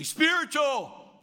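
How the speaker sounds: high, very slow sing-song reply; drawn-out pious answer from the crowd; mock eager answer. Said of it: "And they'll say".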